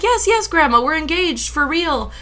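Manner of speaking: high, emphatic retold reply to grandma; excited confirmation. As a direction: insist happily, starting loud and easing off.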